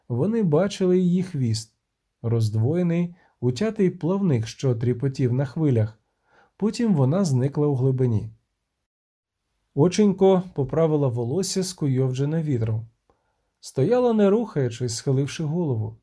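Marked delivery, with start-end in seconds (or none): none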